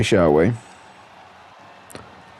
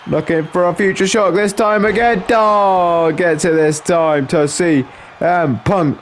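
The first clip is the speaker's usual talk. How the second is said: lively wrestling commentary, a little raised in pitch; live play-by-play; 3 semitones higher than usual. Acted. Commentator following Punk and McIntyre, lively play-by-play. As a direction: call the wrestling moves as they land.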